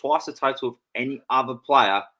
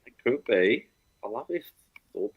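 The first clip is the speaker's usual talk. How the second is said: put-on Scouse accent. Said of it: "Was that your Scouse accent?".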